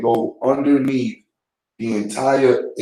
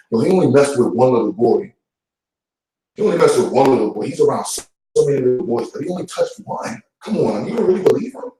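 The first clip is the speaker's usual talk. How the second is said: mock incredulous defence; 2 semitones higher than usual. Church member defending the accused to a doubter, mock incredulous. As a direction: voice a church member scoffing at an accusation, pitch climbing.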